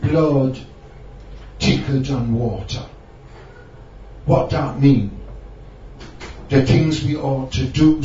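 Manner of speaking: put-on poem in a Jamaican Rasta accent. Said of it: "in a Rasta accent".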